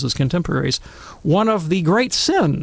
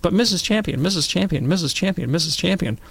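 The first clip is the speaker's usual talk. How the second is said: higher-pitched first grader repeating for attention; eager pestering pupil; 3 semitones higher than usual. Retold or imitated. Precocious first grader calling to the teacher, mock eager pestering. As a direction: imitate a kid insistently calling the teacher. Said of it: "throw my hand up and I said".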